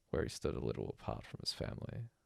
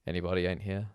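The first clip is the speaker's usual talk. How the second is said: calling out; 5 semitones higher, 9 dB louder, faster than usual. A narrator's reading. Official calls out to crowd.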